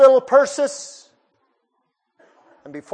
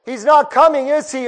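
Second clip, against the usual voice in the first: a mildly louder, pleading call; crying out; 3 semitones higher, 4 dB louder than usual. Retold or imitated. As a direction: call out the question, a touch louder. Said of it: "she cried to him".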